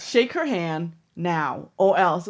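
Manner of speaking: slow, deliberate imitated ultimatum; half-acted slow, firm order; mock threat. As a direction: lay down a measured warning. Acting a threat from the film.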